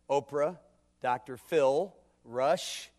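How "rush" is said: normal talking voice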